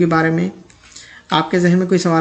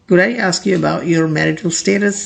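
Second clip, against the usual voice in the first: slow, clear question; slow model sentence; much slower than usual. Shown as a demonstration. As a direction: read it slowly for learners. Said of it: "example sentence read slowly". (धीमा उदाहरण वाक्य)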